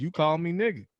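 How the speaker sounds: hammed-up drive-through fury; mock outrage. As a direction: scold the fast-food worker in your head. Imagined rant at drive-through.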